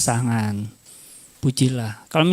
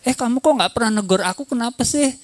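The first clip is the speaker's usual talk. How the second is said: higher, quick questioning complaint; acted nagging, pitched up and hurried; mock reproach; 5 semitones higher, faster than usual. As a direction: playfully tell off a partner.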